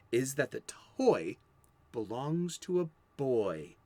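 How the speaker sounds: measured, emphatic read-out of comics history; read-aloud presenter. Real, not acted. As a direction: present it like a prepared script, landing key phrases.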